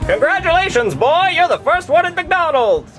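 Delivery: hearty employee making an announcement; cheery cashier voice. Acted. Cashier congratulates him.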